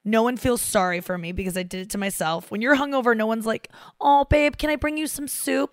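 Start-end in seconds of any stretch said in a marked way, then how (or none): 4.0-5.7 higher-pitched, cooing mock concern; mock sympathy. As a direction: coo it like a doting partner. Imagined sympathetic partner, mocked.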